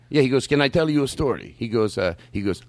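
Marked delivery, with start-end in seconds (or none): 0.5-1.5 measured, accented impression of a man; imitated acquaintance's voice. Man at the shop asks to tell a story, in imitated voice. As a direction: imitate his careful foreign-sounding speech. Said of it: "This is how he actually talks".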